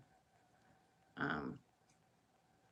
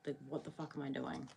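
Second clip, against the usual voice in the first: ordinary talk, nothing marked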